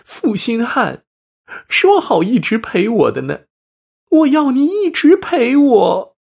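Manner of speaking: high, slow, eerie ghost voice; shrill ghostly wail. Acted. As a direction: moan it out like a vengeful spirit. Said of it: "凄厉的叫喊".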